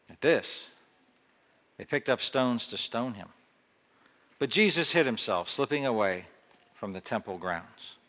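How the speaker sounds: dramatic Bible reading with voiced speakers; scripture reading. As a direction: read the passage like a story to the congregation. Reads scripture passage aloud.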